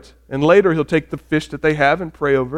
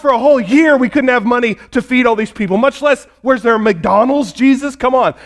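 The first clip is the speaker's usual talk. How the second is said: higher, quick exasperated complaint; mock scolding; 4 semitones higher than usual. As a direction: scold him in acted disbelief. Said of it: "They scold Jesus".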